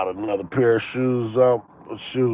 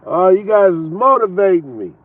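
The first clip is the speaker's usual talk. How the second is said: imitating excited; 8 semitones higher, 7 dB louder than usual. Imitating the old man's remark.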